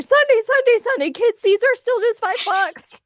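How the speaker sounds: loud high monster truck ad voice; announcer yell. Acted. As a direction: belt it like a radio ad. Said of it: "as he flips through the air".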